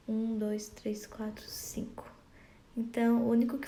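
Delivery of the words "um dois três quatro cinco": counting that sinks into a whisper; fading count. Shown as a demonstration. Teacher counts poetic syllables, fading to a whisper. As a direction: count softly until it is only breath. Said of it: "teacher counts syllables aloud".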